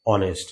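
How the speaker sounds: অনেস্ট said softly as "onest", no h; soft teacher model, h silent. Shown as a demonstration. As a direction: model অনেস্ট starting on the vowel. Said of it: "এটার উচ্চারণ করব অনেস্ট".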